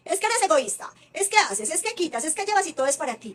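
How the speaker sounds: mock scolding mother; scolding parent. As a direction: imitate a parent labelling the kid. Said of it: "no taches".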